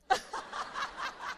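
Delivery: high unvoiced embarrassed laugh; high breathless laugh; breathy laugh. Real, not acted. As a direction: laugh out of surprise. Caught by flight attendant.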